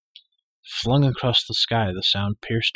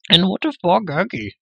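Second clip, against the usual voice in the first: high, loud whiny creature howl; 9 semitones higher, 6 dB louder than usual. A narrator's reading. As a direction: wail it out self-pityingly. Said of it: "howled the creature".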